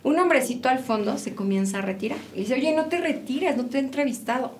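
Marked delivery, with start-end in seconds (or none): 2.5-4.5 king calling out. Retold or imitated. King calls man back.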